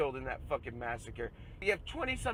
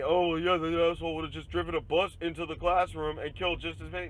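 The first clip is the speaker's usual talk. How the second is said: mocking gun advocate; 4 dB louder than usual. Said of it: "And then tell me".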